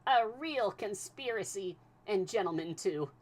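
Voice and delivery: high, loud tipsy outrage; wine-fuelled indignation; excited cry. A narrator's reading. Passepartout tipsy with wine, crying out to Fix. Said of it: "more and more excited".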